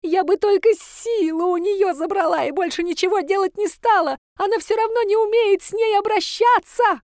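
high shrill granny pleading; pleading old woman. A narrator's reading. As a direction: plead like a greedy old crone. Granny keeps pleading angrily. (старушка оправдывается, высоко и визгливо)

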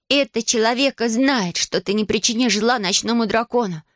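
put-on high defiant girl's cry; girl shouting back. Girl Aliana defying the dragon, high and bold. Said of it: "крикнула в ответ Алиана".

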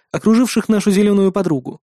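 plain reading voice

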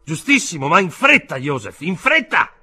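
high, loud, impatient urging; urgent shouting. A narrator's reading. Uncle hurrying Joseph out of the office, shouting. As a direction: hurry him along at a shout. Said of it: "gridò lo zio".

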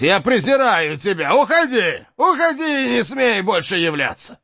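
high furious shout. Acted. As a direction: drive the demon out. Driving off the demon.

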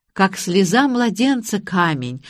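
слеза said meekly, slowly, as a correction; obediently repeating the corrected word слеза. Acted. Groom meekly repeats the bride's correction слеза. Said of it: "покорно повторил жених".

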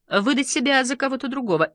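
high-pitched broadcast interviewer; lifted television host voice; TV presenter. A narrator's reading. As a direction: carry on the interview on air.

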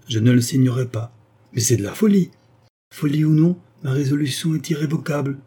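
a defiant prisoner, lightly voiced; resolute condemned woman. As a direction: refuse him with steely resolve. Flavia voiced, heated exchange.

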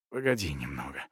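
soft, low cracking plea; voice breaking. Acted. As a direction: ask with a breaking voice. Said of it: "срывающимся голосом попросил Йох Фредерсон".

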